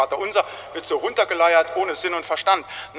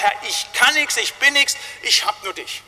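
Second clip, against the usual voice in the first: crying to God; 6 semitones higher than usual. Retold or imitated. Pastor voicing a helpless believer crying to God. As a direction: cry out your helplessness to God. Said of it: "dass man zu ihm schreit".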